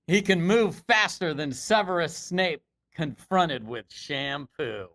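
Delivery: hyped sports commentator call, slowing at the end; announcer voice. Acted. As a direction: read it like a broadcast highlight. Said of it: "You gotta do your announcer voice".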